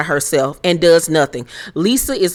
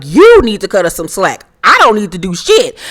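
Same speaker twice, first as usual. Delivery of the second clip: louder, firm clapback; sharp retort; 6 dB louder than usual. Retold or imitated. Garcelle louder, firmly refusing Kyle's request. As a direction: snap it back hard. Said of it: "Garcelle was like".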